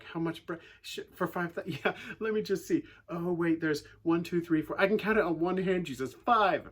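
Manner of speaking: sarcastic. Retold or imitated. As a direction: count on your fingers to make a point. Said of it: "they're sarcastic again".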